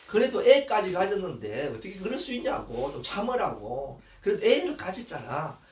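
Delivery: smooth it over, easing down; placating husband. Acted. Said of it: "그렇게 무마시키는데".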